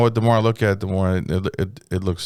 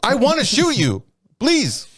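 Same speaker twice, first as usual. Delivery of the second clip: raised, eager mock plea; raised mock pleading; 11 semitones higher, slower than usual. Cop goading the homeowner, raised mock plea. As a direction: beg to shoot him, pitched up. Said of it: "there's like".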